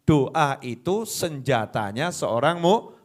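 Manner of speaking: normal talking voice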